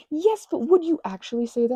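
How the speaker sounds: high, loud disbelieving question; incredulous pleading. Retold or imitated. Asking friends if he likes her, incredulous. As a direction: push back, half hoping, half doubting. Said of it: "And I was like".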